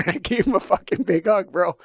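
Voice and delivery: bursting with joy, a laugh in it; telling his co-host about the hug, laughing and excited; laughing excitement. Real, not acted. Joyful retelling of hugging himself.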